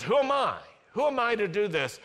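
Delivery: high, fast, fretful self-doubt; anxious Moses. Acted. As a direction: blurt it out in disbelief. Moses doubting himself, acted.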